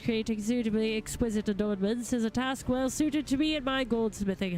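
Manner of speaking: lightly voiced courtly gentleman, eloquent and eager; a hint of a grand lord addressing helpers; formal gentleman goldsmith. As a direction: read it as a formal, well-spoken master craftsman. Reads a game figure's dialogue.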